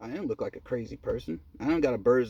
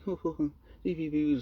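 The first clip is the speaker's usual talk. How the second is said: mock giggling; 2 semitones higher than usual. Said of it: "start whispering and laughing".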